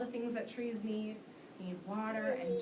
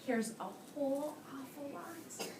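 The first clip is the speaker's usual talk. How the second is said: put-on reading to children. A narrator's reading. Teacher reads The Lorax aloud.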